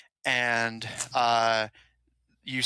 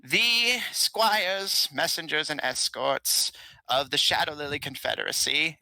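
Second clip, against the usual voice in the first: put-on frail old king; 4 semitones higher than usual. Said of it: "he continues".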